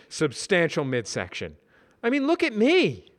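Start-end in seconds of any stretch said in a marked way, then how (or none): 2.0-3.1 high, loud self-display; Brad voice. Acted. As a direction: show himself off proudly.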